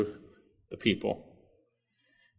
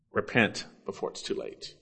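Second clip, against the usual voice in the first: whispered plea; 5 semitones lower, 10 dB quieter than usual. Real, not acted. Urgent plea closing warning.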